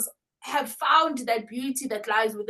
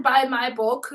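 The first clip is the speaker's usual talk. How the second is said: laughing plug; 3 dB louder than usual. Real, not acted. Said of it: "laughs at own plug".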